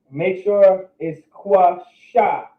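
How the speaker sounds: "Quasha" stretched out slowly, with weight on sure; slow it right down and insist on "Quasha"; slow emphatic model. Shown as a demonstration. Teacher making sure students say Quasha correctly, slow and emphatic. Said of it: "is pronounced Quasha".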